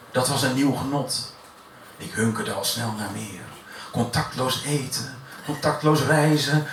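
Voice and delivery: deliberate verse reading with measured pauses; spoken-word poem delivered line by line; poetry recitation. Acted. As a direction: build through the list, then let the ending sink. Recites a wry short poem.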